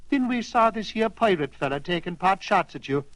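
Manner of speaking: lightly voiced Irish setter, proud. Irish setter proudly tells how they attacked the pirate. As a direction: brag about the rescue with a lilt.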